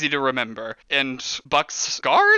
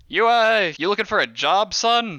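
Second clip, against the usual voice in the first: smooth boss pitch; 6 semitones higher than usual. Acted. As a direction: lean in and sell him the job. Boss offers Gregory a job.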